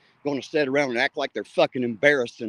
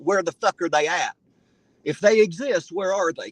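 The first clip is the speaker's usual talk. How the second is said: hollering; 5 semitones higher than usual. Real, not acted. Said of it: "I'm not hollering at you".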